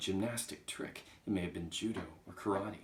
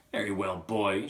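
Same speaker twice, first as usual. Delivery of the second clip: louder, commanding address; stern headmistress; 9 dB louder than usual. Acted. Trunchbull turning back to unfortunate Wilfred, stern. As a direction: round on the child sternly.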